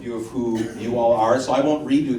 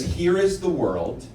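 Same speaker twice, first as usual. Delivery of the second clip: quote read slowly. Shown as a demonstration. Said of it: "he has a quote that says".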